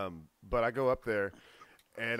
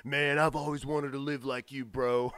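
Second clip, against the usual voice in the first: lightly voiced college-age dreamer; a touch of wide-eyed bro; starry-eyed dreamer. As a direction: gush a little, mocking your own naive admiration. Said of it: "starry-eyed dreamer would say".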